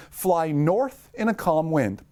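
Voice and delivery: slow, deliberate read-aloud. Shown as a demonstration. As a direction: read it out slowly, word by word. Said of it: "All right, slow down".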